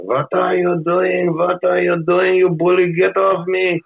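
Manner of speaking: high, slow falsetto whine of a fake victim; mock victim squeal. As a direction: squeal it out high and drawn-out, playing the innocent. Retold arrest, mock victim squeal.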